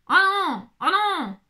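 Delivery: high, falling wail of dismay; whining "oh no". Real, not acted. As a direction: lament it loudly, high-pitched. Dismayed at cutting the pouch.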